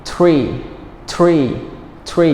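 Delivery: tree repeated as a drill, starting t-r. Shown as a demonstration. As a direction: say tree with a t, pausing between repeats. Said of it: "Not seen three".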